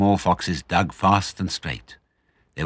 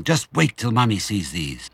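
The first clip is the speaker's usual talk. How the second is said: eager thought; 4 semitones higher than usual. Acted. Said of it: "he kept thinking".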